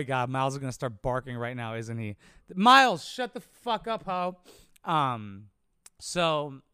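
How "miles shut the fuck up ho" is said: real shout, higher and louder; yelling at the dog. Real, not acted. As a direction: snap at the barking dog. Yelling at his barking dog.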